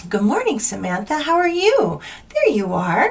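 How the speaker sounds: syrupy, very sweet, high sing-song voice. Acting out how you greet your outdoor cat each morning, in a very sweet voice. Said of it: "I use a very sweet voice".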